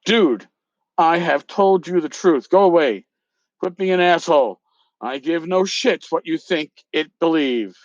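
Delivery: reading the angry email aloud with some heat; hammed-up dramatic reading of an email; reading out a feud email with mock drama. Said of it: "the dramatic reading".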